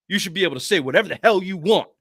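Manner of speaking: mocking read of a fan's angry post; mock fan rant. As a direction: ham up the outraged commenter. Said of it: "one of these stupid internet posts".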